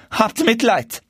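high begging cry; desperate cry. A narrator's reading. Dwarf on his knees cries for mercy. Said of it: "rief der Kleine".

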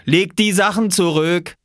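high, loud command; shouted order. A narrator's reading. Swimmer ordering the boy to return clothes, shouted command. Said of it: "rief Viktor".

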